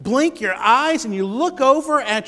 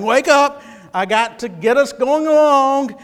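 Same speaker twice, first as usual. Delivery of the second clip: urgent rousing; 5 semitones higher, 5 dB louder than usual. Retold or imitated. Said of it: "Mark, the gospel writer, is saying".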